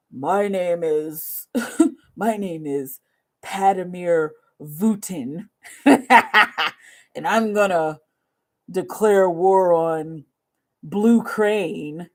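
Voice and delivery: slow, heavy mock-villain speech with laughs breaking in; mock Putin declaration. Mocking a would-be conqueror, slow and hammed-up. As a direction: ham up a dictator declaring war.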